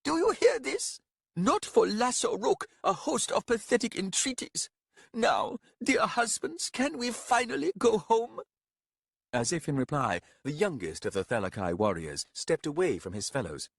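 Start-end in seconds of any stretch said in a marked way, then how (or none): 0.0-8.4 high, loud exasperated woman; scolding wife voice. Acted. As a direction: scold the husbands shrilly. Thelakai wife scolds husbands.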